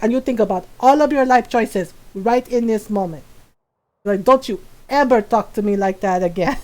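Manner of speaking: put-on accented Filipino mom telling off her son; imitating scolding mom. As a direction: mimic a mother's stern, deliberate threat. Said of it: "she do my voice very well".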